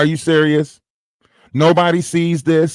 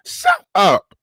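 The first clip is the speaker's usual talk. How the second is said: shut up; 13 semitones higher than usual. Real, not acted. Dismissing the mocked rival.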